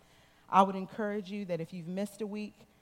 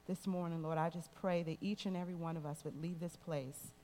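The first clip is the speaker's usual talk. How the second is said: closing prayer. Real, not acted. Pastor leads closing prayer.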